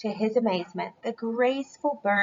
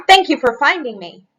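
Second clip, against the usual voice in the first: much louder grateful call; a loud, cheerful thank you; 2 semitones higher, 10 dB louder than usual. A narrator's reading. Character thanks.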